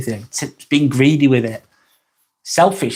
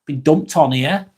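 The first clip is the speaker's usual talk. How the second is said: tired; slower than usual. Retold or imitated. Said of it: "I felt so tired after the date".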